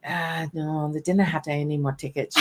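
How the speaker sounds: quick, rough Scottish imitation; bastardized Scottish accent. Guard reporting back from the ticket folks, bastardized Scottish accent. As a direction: rattle it off in mock Scottish. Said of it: "the bastardized Scottish accent".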